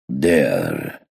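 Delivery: low, muffled, as if through a hand. A narrator's reading. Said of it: "in an unnaturally low and muffled voice".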